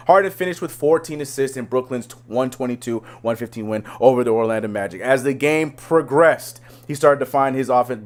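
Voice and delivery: a lightly announcer-ish read of a news article. Acted. Host reading a news article to his co-host, light announcer read. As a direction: read the story like a sports news blurb. Reads headline article aloud.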